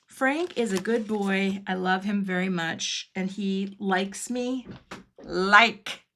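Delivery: a playful Pee Wee Herman impression. Praising her dog in a light Pee Wee Herman impression. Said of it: "that's my Pee Wee, uh, impression".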